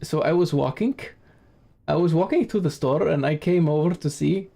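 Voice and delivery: imitated Romanian accent, "walking" ending in a k; Transylvanian accent. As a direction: mimic a Transylvanian speaker of English, "walkink". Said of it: "So they'd be like".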